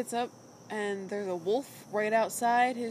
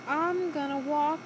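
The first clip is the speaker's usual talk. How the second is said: Callie voice; 4 semitones higher than usual. Retold or imitated. Voicing Callie.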